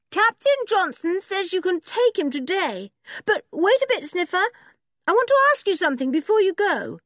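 put-on a bossy girl getting to business; brisk girl. A narrator's reading. George's voice.

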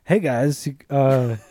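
a hint of a nervous narc voice; awkward adult asking. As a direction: ask like an out-of-place adult. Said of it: "I go".

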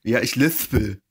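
imitating a lisper, s turned to th in "lispel"; mock lisp. Acting out a lisping guy's answer, mock lisp on "lispel". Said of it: "der lispelt".

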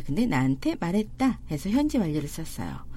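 ordinary talk, nothing marked

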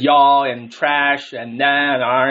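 slow, drawn-out imitation of American college talk; mock American accent. Host teasing how college players talk after two years, mock American accent. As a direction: imitate an American twang, stretching the words. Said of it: "you had that American accent".

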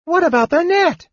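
very high yelled question; yelling. A narrator's reading. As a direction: shout up in alarm. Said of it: "Tas yelled".

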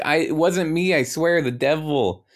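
high, protesting excuse; mock-panicked self-defence; pleading denial. Acted defensive denial to God.

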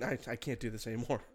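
laughing. Real, not acted. Breaks up after the take.

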